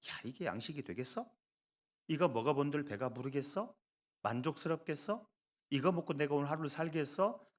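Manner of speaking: sceptical run of rising questions; dismissive doubt. Acted. Israelites judging manna at first sight, mildly sceptical. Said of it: "그냥 편견, 선입견을 가져버린".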